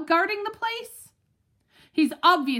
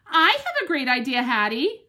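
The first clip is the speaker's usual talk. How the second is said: eager bark; 4 dB louder than usual. Acted. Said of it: "I bark".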